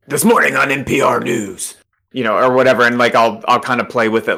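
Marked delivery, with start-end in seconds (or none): 0.1-1.8 lightly mimicked news radio announcer; a hint of a public radio read; mimicking radio host. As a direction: copy the NPR host as practice.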